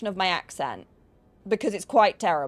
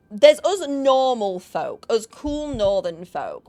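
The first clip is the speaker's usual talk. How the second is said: slow, emphatic; 4 dB louder, slower than usual. Real, not acted. Drawing out a proud claim.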